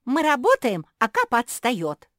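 high, loud complaining shout; a sister shouting that Kapa is falling behind. A narrator's reading. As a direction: yell it across the boats to tell on Kapa. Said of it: "Жози крикнула".

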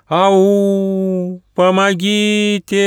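high, loud far-off call for help; plaintive call. A narrator's reading. Hidden Auka calls out plaintively to lure the travellers. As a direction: call out from among the rocks. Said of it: "послышалось снова".

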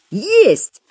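high, drawn-out jubilant cry; gleeful yell. A narrator's reading. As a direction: crow it like rowdy pupils. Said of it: "ликующе завопил Галёрка".

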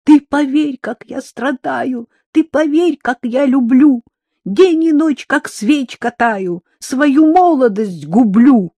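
high falsetto singing, loud. Acted. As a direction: croon it in falsetto. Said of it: "фальцетом отвечал".

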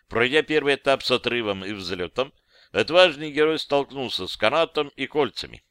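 ordinary delivery

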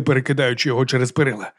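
ordinary delivery

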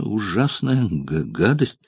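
light stammer on the first sound; stutter. Acted. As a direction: catch on the opening consonant. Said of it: "И заикание".

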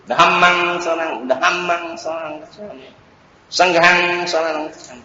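"Đà hăm măng" with dh aspirated, phrase endings softened; Pali recitation. Shown as a demonstration. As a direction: recite "sang hăng" with a clear h, tailing off softly. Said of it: "đọc theo đúng Pali".

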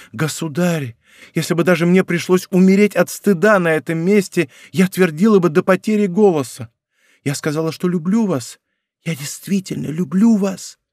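lightly voiced girl, pleading and fervent; passionate young woman. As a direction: pour out a desperate love confession. Louise's passionate confession.

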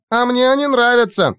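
put-on high excited girlish cry. Aurora runs after the creature, excited high cry. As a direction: squeal it out with delight. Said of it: "кричала она".

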